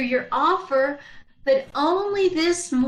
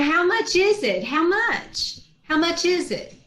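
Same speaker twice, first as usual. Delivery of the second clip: eager; 5 semitones higher than usual. Acted. Eager to buy.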